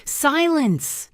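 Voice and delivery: captain's shouted command. A narrator's reading. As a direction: silence the crew at once. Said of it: "Silver shouted".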